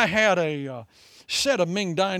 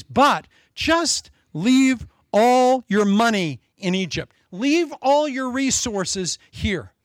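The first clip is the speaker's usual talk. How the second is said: slow, higher, louder sly tempter; Satan tempting; 5 semitones higher, 4 dB louder, much slower than usual. Retold or imitated. Satan luring Moses to leave the wealth behind. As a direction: stretch each word like a lure.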